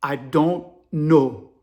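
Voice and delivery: put-on slow, low African-accented reply; Hans. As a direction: African accent, each word stretched out. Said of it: "Hans said".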